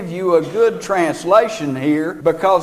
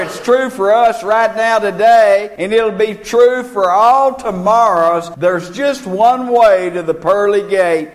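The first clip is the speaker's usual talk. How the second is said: building preaching; 3 dB louder than usual. Acted.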